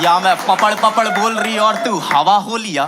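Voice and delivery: light Hyderabadi accent on her words; a hint of a Hyderabadi girl's lilt. Date imitating her Hyderabadi accent, lightly voiced. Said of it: "हल्का हल्का Hyderabadi accent भी था".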